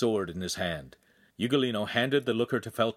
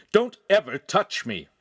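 loud, raised-pitch warning; angry shout; 7 semitones higher, 6 dB louder than usual. A narrator's reading. Noble warning the man who grabbed him, loud angry order. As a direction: warn him off forcefully. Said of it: "Feltrino shouted".

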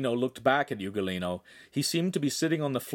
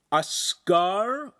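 high, louder outburst of alarm; erupting in shock; 10 semitones higher, 5 dB louder than usual. A narrator's reading. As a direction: burst out in disbelief. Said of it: "all three teens erupted at once".

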